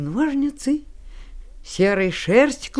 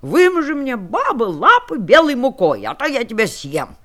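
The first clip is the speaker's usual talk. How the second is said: growling wolf; 4 dB louder than usual. Acted. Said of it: "волк и зарычал на неё".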